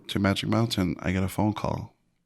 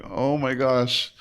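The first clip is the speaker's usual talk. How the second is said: stunned; 4 semitones higher, much slower than usual. Retold or imitated. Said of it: "I was like".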